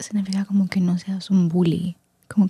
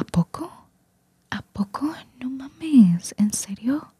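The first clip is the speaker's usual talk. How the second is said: mock disbelief; 6 semitones higher, slower than usual. Acting out disbelief at news.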